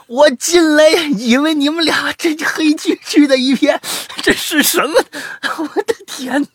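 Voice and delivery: high, loud strained yelling; hammed-up appalled shriek, words stretched out; horrified shout. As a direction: rant in comic horror at the sight. Acting out walking in on couple.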